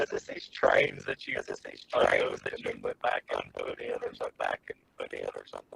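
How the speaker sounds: staticky robot-like voice. Asking the other speaker about the trains: staticky robot-like voice. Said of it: "your voice just went really weird, like you're a robot".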